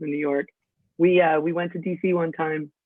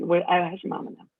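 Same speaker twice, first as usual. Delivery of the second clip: Southern greeting; faster than usual. Retold or imitated. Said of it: "It's like".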